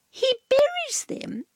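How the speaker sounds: high breathy whisper; whispered secret. A narrator's reading. Cat whispers the gardening secret to Dog. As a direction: share it like a secret.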